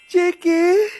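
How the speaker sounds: gasp, then a stunned rising "Cheque?"; a sharp intake of breath, then the word; shocked gasp. Acted. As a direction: catch your breath in disbelief.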